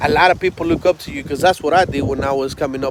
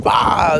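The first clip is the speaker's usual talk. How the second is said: sudden raised "bah" for impact; imitated bat smack; 4 semitones higher than usual. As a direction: voice a bat hitting a desk. Imitating bat striking the desk.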